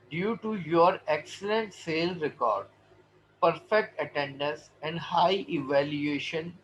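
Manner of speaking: very slow, measured English read-aloud; formal letter reading. Acted. Teacher reading an employee's congratulation letter, slow formal read-aloud. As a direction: read the letter out phrase by phrase, deliberately.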